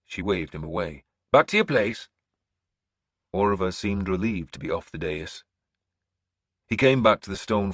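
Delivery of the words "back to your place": put-on old seeress ordering. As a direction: summon him to the throne. Breda dismisses.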